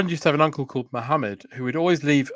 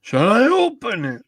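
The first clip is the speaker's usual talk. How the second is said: whisper impression; 6 semitones higher than usual. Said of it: "Jim Howick's whisper".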